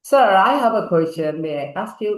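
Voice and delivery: a touch of theatrical politeness; with a little flair. Shown as a demonstration. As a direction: put on some style for the teacher. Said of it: "একটু ঢং করে বলেন".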